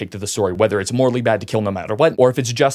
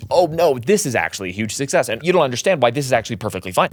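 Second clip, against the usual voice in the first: mocking fans; 3 semitones higher than usual. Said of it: "the mental gymnastics that so many fans".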